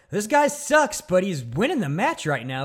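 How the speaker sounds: high, hammed-up jab at the wrestler; imitating Brain; mock commentator. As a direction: toss off the insult in a cartoon announcer voice. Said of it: "he just goes into".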